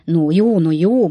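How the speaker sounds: placating, emphatic interjection; mildly acted peacemaking; conciliatory. A narrator's reading. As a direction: try to calm the quarrel. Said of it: "mondta Perker úr békítő hangon".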